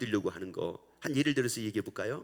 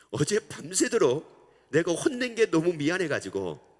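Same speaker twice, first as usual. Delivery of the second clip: preaching; 2 semitones higher, 6 dB louder than usual. Acted. Preacher building emphasis.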